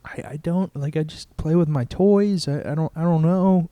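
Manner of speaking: put-on halting, innocent child's excuse; six-year-old kid. Six-year-old stuck for sins at confession, lightly voiced innocent stammer. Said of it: "I'm six".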